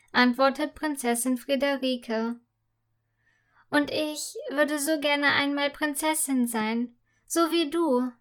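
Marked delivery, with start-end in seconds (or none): 3.7-8.1 lightly wistful; girl dreaming aloud to her friend; dreamy wishing. Acted. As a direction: dream aloud of being a princess. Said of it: "meint Fia ebenso verträumt".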